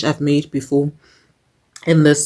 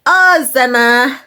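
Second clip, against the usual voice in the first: delighted sigh; 7 semitones higher, 4 dB louder, slower than usual. Real, not acted. Savouring the food.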